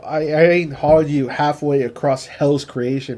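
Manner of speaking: put-on understated Texas accent on a quote; mildly imitated Texas cowboy talk; Texas drawl. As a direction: repeat the line with a light Texan twang. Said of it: "he brings out his text".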